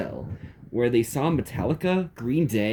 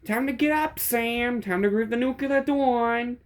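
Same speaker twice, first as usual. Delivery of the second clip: high squeaky New York mobster voice; New York Mafia accent; 12 semitones higher than usual. A narrator's reading. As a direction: bark it like a New York wiseguy. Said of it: "in his New York Mafia accent".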